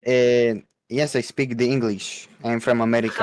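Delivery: thick mock foreign accent, insisting it is real; broken English in a put-on accent; Borat accent. Claiming to be American in a hammy Borat-like accent. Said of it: "you're doing the Borat accent".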